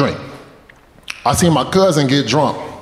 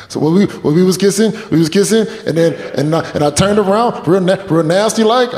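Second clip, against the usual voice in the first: high, stammering tearful confession; imitating a friend blubbering his story; mock crying; 6 semitones higher than usual. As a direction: stumble through it as if weeping. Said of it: "really crying right now?".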